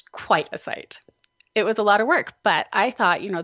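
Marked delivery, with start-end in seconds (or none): 0.1-1.0 softly whispered repeat of "Quite a sight"; whispered echo. Shown as a demonstration. Mom echoing herself to listeners, whispered. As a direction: breathe "Quite a sight" as a hushed aside.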